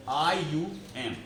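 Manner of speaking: आईयूएम spelled letter by letter, very slowly; slow spelling. Shown as a demonstration. Teacher spelling the suffix for the class, slowly. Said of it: "इसमें ईएम लगा होगा".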